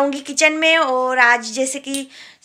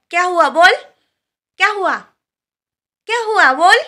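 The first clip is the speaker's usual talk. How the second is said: much higher, louder sing-song cooing; 7 semitones higher, 7 dB louder than usual. Real, not acted. Mother cooing at baby Dishani who won't let her talk, high playful baby talk.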